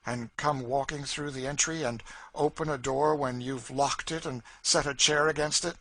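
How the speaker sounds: a hint of a woman spooking her master; Cassie's voice. A narrator's reading. Cassie frightens Legree with ghost talk, eerie and taunting.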